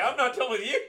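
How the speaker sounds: loud, high hammed-up threat; mock menacing yell. Imitating the movie mom threatening, mock angry shout. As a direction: throw the threat out with comic fury. Acting out film mother's threat.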